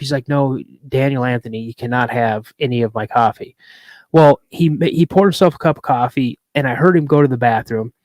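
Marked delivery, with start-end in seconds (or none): 0.3-3.6 lightly voiced stern father, lower pitch; stern dad. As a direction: put on a hint of firm dad. Retold father refusing his child.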